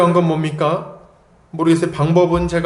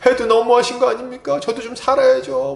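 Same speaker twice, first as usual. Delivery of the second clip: high-pitched mock complaint to God; plaintive protest; 8 semitones higher than usual. A believer in hardship protesting to God, plaintive. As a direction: act out a worn-out believer pleading. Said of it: "너무 힘들어".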